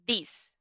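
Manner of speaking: "this" with the tongue between the teeth; demo of this. Shown as a demonstration. Teacher showing her tongue position on "this". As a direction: say "this" short and dry, tongue showing. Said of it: "no es sonoro, no vibra".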